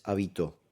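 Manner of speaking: "habitó" stressed on the final tó; stress on last syllable. Shown as a demonstration. Teacher showing an aguda word, "habitó" with stress on tó. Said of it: "la sílaba acentuada es la última".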